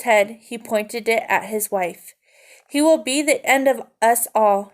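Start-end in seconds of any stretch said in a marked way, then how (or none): 2.7-4.7 shouted. Acted. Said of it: "he shouted".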